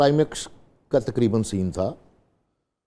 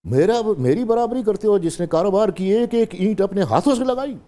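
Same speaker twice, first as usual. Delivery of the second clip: raised, much higher and louder, a furious father; a father confronting his son, much higher and louder in anger; angry father; 9 semitones higher, 4 dB louder than usual. Acted. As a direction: scold your son for daring to match you. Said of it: "reciting the dramatic scene line".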